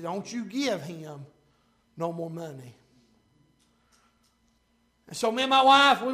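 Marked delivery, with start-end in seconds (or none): 0.0-2.7 slow, deliberate, low warning; Holy Spirit's voice. Retold or imitated. Holy Spirit repeating the warning to the preacher, slow and deliberate. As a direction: spell it out word by word, quietly. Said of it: "He said".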